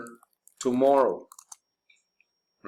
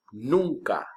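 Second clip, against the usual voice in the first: 1 whispered answer. Acted.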